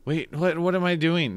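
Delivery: high, startled double take; surprised. Real, not acted. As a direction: suddenly realise you got it wrong. Realising a price mistake.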